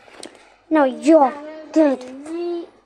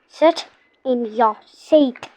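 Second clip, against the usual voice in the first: slow stern order; 3 semitones lower, slower than usual. Pretend. Ordering a toy to sit.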